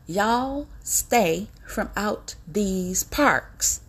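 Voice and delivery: drawn way out, each word separate; hammered-out slow repeat of the warning. Shown as a demonstration. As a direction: stretch every word like a final warning.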